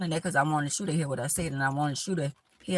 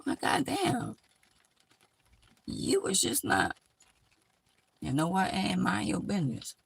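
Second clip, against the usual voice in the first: exasperated outburst; 2 semitones higher than usual. Retold or imitated. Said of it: "And I be saying".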